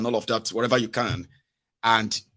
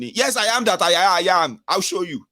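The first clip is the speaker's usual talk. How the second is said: higher-pitched mock bluster; mock self-important threat; 5 semitones higher, 4 dB louder than usual. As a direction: play the puffed-up official threatening. Acting boastful official threatening a citizen.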